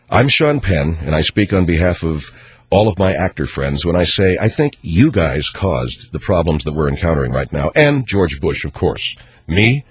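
a mild send-up of a self-important movie star lecturing on politics; Sean Penn impression. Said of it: "celebrity voice impersonated".

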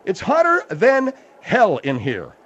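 panting between words; breathless from the heat; out of breath. Real, not acted. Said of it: "why are you out of breath?".

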